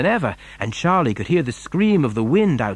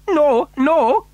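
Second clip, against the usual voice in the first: high, louder protest; urgent pleading; 13 semitones higher, 5 dB louder than usual. A narrator's reading. Wonka to queasy passenger, urgent and high. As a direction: protest quickly in a high, loud voice. Wonka begs her to wait.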